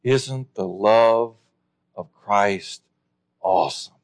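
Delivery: slow, low, softened reply; gentle wonder. Acted. Imagined reply to the apology.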